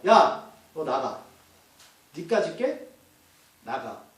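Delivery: low, slow commanding rebuke, dropping off at the end; stern rebuke. Shown as a demonstration. Preacher shows how Jesus rebukes a demon, stern rebuke. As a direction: order it out with contempt, voice sinking low. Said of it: "이렇게 하는 거예요. 꾸짖는 게".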